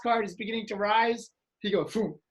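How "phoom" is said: imitated whoosh. Imitating the kid jolting cards.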